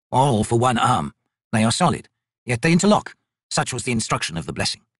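lightly voiced, formal old merchant; humble old trader. Old trader explains himself to soldiers, mildly anxious and formal. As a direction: plead poverty with careful courtesy.

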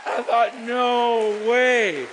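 loud, high disbelieving cry; stunned excitement. Real, not acted. Preacher reliving the hundred-thousand-dollar offer, loud and amazed. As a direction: blurt out your amazement.

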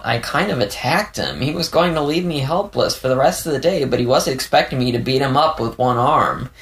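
flustered explanation with wide swings in pitch; Leo, flustered recounting. Acted. Leo tells defensive anecdote.

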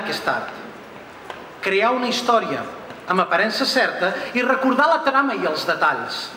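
steady verse reading that fades at the end; poetry recital. Acted. Reads own poem in Catalan.

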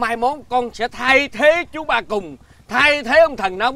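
slow, stretched-out pompous declaration; grand proclamation. Acted. Father proclaims child a future farm engineer, grandly.

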